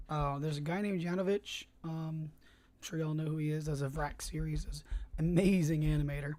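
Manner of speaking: talking around a cough drop; words round a lozenge in the mouth. Real, not acted. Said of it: "I've got a cough drop in my mouth".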